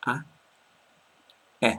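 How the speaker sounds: a clear short A then a clear E; vowel demo. Shown as a demonstration. Teacher showing learners the two vowels, clearly. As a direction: isolate each vowel sound slowly. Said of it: "you want to say it like a or e".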